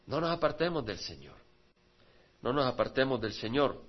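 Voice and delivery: dropped to a quiet, earnest plea; soft repetition. Acted. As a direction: bring it down for the echo. Misma frase repetida en voz baja. (repetición en voz baja)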